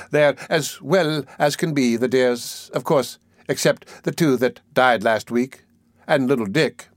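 mildly gushing concern; a touch of drawn-out fondness; with emotion. Acted. Missus Mann reports on the children to Mister Bumble, with mild emotion. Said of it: "said Missus Mann with emotion".

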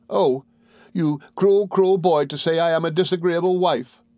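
high, wounded wife's outburst; distressed cry. A narrator's reading. Dora accusing her husband of insulting her, crying out. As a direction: cry out in hurt, pitched well up. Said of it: "cried Dora".

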